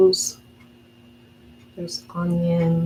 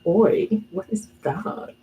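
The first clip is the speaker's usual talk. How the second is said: British oi; slower than usual. Retold or imitated. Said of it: "I spend too much time with my British friends".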